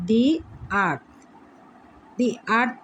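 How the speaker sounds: দি আর্থ, with "ee" in দি, words set apart; "the" as "dee". Shown as a demonstration. Teacher modelling "the earth" for pupils, "dee" sound. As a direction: say দি before the vowel of আর্থ. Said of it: "দি হবে".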